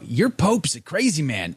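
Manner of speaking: lightly voiced Southern redneck dad. Son retells his dad's call, light Southern redneck voice. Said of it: "my inner voice is always a redneck".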